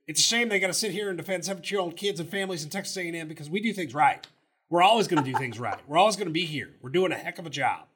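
fast, lightly voiced defiant coach; Jimbo impression. Host imitating Jimbo defending his program, fast mock impression. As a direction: rush through it with mock pride, only lightly put on. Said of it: "How's my impression?".

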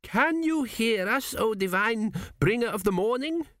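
timid servant voice. A narrator's reading. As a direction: ask very carefully, timid.

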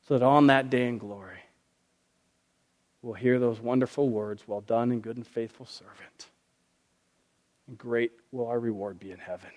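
pastor praying over the congregation; prayer. Acted. Closing prayer.

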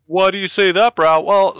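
high, loud dudebro impression; mock bro voice. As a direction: ask yourself like a smug bro. Mock self-question in bro voice.

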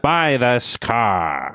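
slow vintage ad pitch; drawn-out sales pitch; 1940s voice. Pretend. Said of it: "nineteen forties voices".

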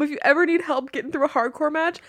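ordinary delivery

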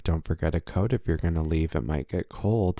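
soft, low caring aunt; motherly aunt voice. Pretend. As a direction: fuss like a gentle aunt. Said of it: "role play".

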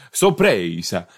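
hammed-up Italian accent, stressed middle syllable. Shown as a demonstration. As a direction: lean into an Italian "sorpresa". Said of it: "said it in an Italian accent".

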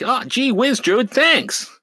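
high gee-whiz voice; hammed-up wholesome nerd; nerdy Spider-Man. Spider-Man thanking the druid, high and nerdy. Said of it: "He's like".

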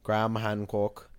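light mock British accent, low and slow; Graham Hancock. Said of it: "that's my Graham impression".

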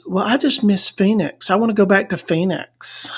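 soft, understated pining, mocking her; mock wistful woman. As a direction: say it small and quiet, feigning homesickness. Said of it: "She says".

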